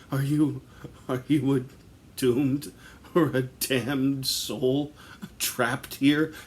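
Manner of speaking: calling out to a trapped soul, hammed up; mock ghost-hunter call. A guy calls to the spirit in the woods, loud mock-solemn call.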